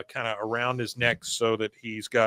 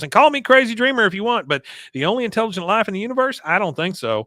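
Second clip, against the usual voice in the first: high, loud grand pronouncement; hammed-up dreamy proclamation; dreamy Peggy; 8 semitones higher, 4 dB louder, faster than usual. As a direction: wax poetic grandly.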